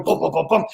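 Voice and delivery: thumping heartbeat sound; imitated heartbeat. Viewer's heart while watching the shark, imitated thumping. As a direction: pound it out like a heart. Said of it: "your heart's just going".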